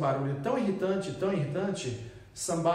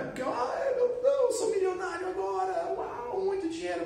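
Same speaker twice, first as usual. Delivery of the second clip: much higher, giddy acted thrill; mock excitement; 14 semitones higher than usual. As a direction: squeal like you just became a millionaire. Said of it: "recebido uma notícia muito boa".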